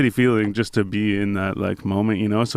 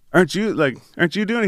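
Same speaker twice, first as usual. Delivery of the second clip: retold disbelief; 8 semitones higher, faster than usual. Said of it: "Jeezy's like".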